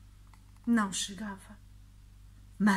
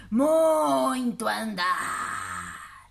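slow, droning monster voice; friendly monster; much slower than usual. Acted. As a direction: sigh it out like a weary giant. Monster repeats.

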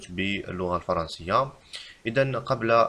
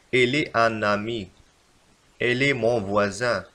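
slow wrong example; slower than usual. Shown as a demonstration. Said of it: "فالخطأ في هذه الجملتين".

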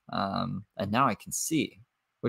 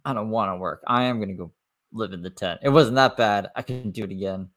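1 mock quote of her. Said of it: "she'll be like".

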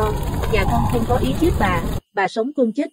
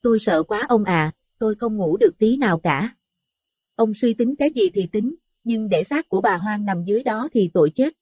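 higher, anxious woman's voice; trembling, fearful wife; 7 semitones higher than usual. A narrator's reading. Wife to husband at night, frightened higher voice. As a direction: plead timidly, worried about the body. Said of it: "run rẩy lên tiếng".

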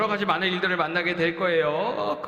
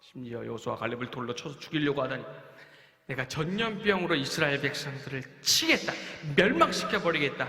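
angry God; 2 semitones higher than usual. Acted. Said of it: "진노하십니다".

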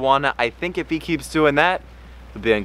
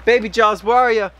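much higher sing-song calling; 9 semitones higher, 3 dB louder than usual. Real, not acted. Owner calling baby fish Jaws in high baby talk. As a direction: coo for the little fish.

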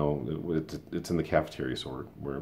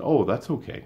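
mock teacher; 9 semitones higher, 5 dB louder than usual. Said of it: "she would have said".

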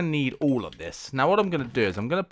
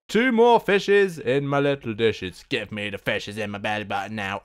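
silly pleading; 4 semitones lower than usual. Pretend. Silly plea for more fish.

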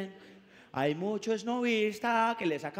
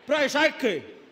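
sly punchline; 4 semitones higher, 5 dB louder, slower than usual. Acted. Punchline, far timbre.

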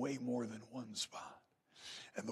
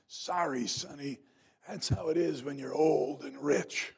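slow, loud, self-satisfied reply; an old lady gloating at the kid she rammed; smug old lady; 2 semitones higher, 6 dB louder, slower than usual. Retold or imitated. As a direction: savor each word like the last laugh. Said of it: "And she said".

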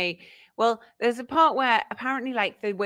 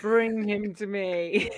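mock regal summons; slower than usual. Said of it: "you're like".

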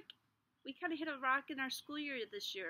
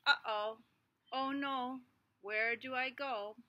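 louder worried uh-oh; worried seed; 4 dB louder, slower than usual. Acted. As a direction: sound a little lost.

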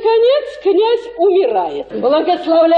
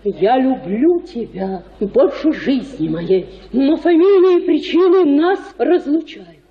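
noble lover's farewell; 3 semitones lower than usual. Retold or imitated. Matchmaker acting out the suitor's farewell to Zinaida, solemn and low. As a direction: play the noble self-sacrificing suitor, hushed and grand. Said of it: "вы пришли бы к ней и сказали".

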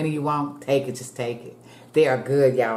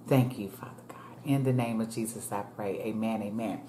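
prayer. Real, not acted. Grace prayer over food.

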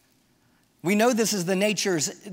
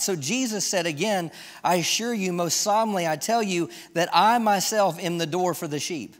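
measured reading of a Bible passage; scripture reading. Acted. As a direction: read the verses out to the congregation with weight. Reads scripture aloud.

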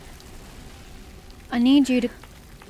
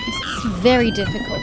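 very high frantic yell; panicked shout; 3 dB louder than usual. Real, not acted. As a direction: yell it while fleeing. Chased by monster.

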